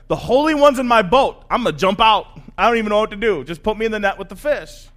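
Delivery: loud, overwhelmed outburst; freaking out. Acted. Fisherman awed by who is in his boat, freaking out. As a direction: blurt it out in acted panic. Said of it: "Peter totally freaks out".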